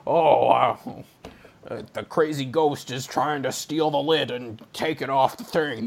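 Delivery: a hint of Harrison Ford, mostly own voice; lightly voiced gruff hero; Harrison Ford impression. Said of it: "That's my Harrison Ford impression".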